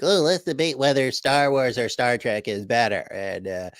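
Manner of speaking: a hint of a goofy fanboy pitching nonsense topics; mocking David Wood. Co-host mocks David's debate picks in a silly voice. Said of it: "he's gonna be like".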